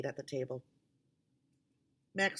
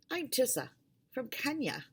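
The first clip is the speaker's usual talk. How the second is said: put-on Kenyan girl's voice; 9 semitones higher than usual. A narrator's reading. Tissa introduces herself, higher.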